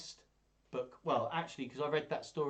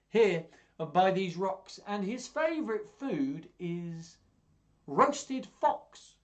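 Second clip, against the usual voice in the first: much higher, louder, slow teasing build; mouse springing a scare; 8 semitones higher, 8 dB louder, much slower than usual. Acted. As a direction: land the punchline roasted fox. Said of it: "do all the voices".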